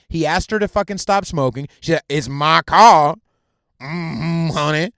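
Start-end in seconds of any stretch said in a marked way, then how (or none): 2.1-3.2 loud, drawn-out mock African American accent; mocking accent impression. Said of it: "that's what she fucking sounded like". 3.8-4.9 lightly mocked African American accent; sassy hum in an imitated African American accent; mocking accent impression. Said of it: "that's what she fucking sounded like".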